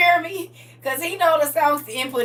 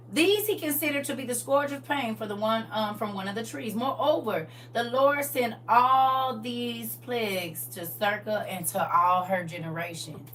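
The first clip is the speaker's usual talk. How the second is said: measured reading, stretching the key words; scripture reading; 4 dB quieter than usual. Real, not acted. Teacher rereading the curse with Circa's name, measured scripture reading.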